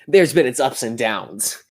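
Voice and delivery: lightly put-on nineties skater ad voice; a hint of a cheesy teen ad narrator; skater kid commercial voice. Friend puts on his cheesy ad voice, lightly put on. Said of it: "I just really hate that voice".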